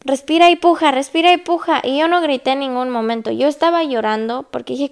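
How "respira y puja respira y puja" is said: higher, punchy repeated instruction; brisk mock coaching chant; nurses coaching a push. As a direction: imitate a nurse urging her on.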